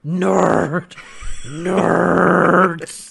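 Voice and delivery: drawn-out teasing "nerd"; hammed-up jeer, stretching the word out long; playful heckle, vowel held long; mock jeer. Hosts mock actor as nerd.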